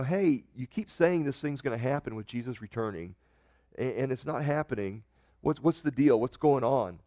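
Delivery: ordinary talk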